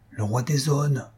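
name him in hushed awe; awed dread. A narrator's reading. Wife revealing the dreaded king, awed.

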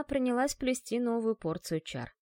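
ordinary delivery, nothing marked

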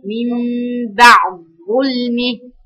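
slow "بعد ظلمه" with the د merged into the ظ; assimilated d. Shown as a demonstration. Teacher demonstrating the assimilation to her students, slow and careful. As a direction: stretch "بعد ظلمه", the د turned into a held ظ. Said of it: "بشيل الدال واحط مكانها ظاء ساكنة".

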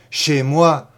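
loud outraged cry; outraged shout. Acted. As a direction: shout it in disgust. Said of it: "criait-elle".

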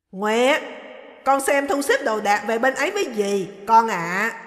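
dismissive orders to the maid; stern mother-in-law. Acted. Mother-in-law ordering the maid away, loud and curt.

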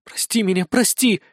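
desperate begging, voice climbing; frantic pleading. A narrator's reading. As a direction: beg like a woman out of her mind. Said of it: "как невменяемая". (отчаянная мольба, как невменяемая)

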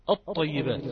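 "الطيبات" with no lam heard, ط doubled; assimilated lam. Shown as a demonstration. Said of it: "تم إدغامها".

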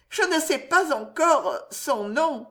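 high, slow innocent admission; naive. A narrator's reading. Loïse admitting to her mother she doesn't know his name, naive and high. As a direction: say it with wide-eyed innocence. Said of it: "avec une adorable naïveté".

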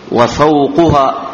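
وفوقها slowly as wa-fawquha; damma on qaf. Shown as a demonstration. Teacher explains it means its roof, damma on qaf. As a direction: stretch وفوقها out with u after the qaf. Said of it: "بضم القاف".

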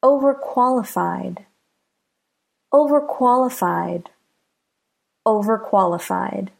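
"overqualified" with stress on "qual"; careful model of "overqualified", "qualified" emphasized. Shown as a demonstration. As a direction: lean on the second part, "qualified", in "overqualified". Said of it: "the stress is on the second part".

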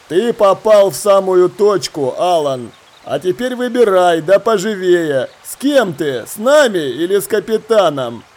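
lightly voiced ringleader, emphatic and threatening; menacing pirate leader. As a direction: force him to choose sides, firmly.

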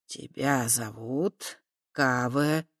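slow, gentle correcting; soft correction. Acted. Chernozub gently correcting the girl's name. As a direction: set her right kindly, very slowly. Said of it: "мягко поправил Чернозуб".

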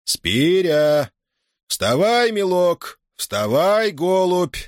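high, drawn-out, sugary calling with hidden mockery; mock-tender drawl. A narrator's reading. Master waking his farmhand, mockingly tender and drawn out. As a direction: coax the sleeping boy sweetly, with a sneer underneath. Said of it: "начал он ласково и протяжно".

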